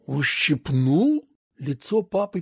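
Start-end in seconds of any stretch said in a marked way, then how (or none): 0.1-1.3 low, very slow, disbelieving question; father repeating the word in low disbelief; stunned father. A narrator's reading. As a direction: let the word sink in with dread.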